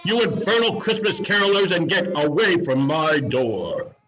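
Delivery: loud, fast furious bark at the door; angry shout. Acted. Miser yelling carolers away from his door. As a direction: drive the carolers off with a yell.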